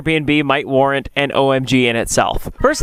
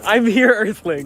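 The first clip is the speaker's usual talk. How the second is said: slow, grand alien arrival line; alien greeting; 6 semitones higher, slower than usual. Acted. Vlogger rehearsing his UFO arrival line, slow and grand. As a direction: announce yourself to the Earthlings like a visitor from space. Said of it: "Oh, that's so much better".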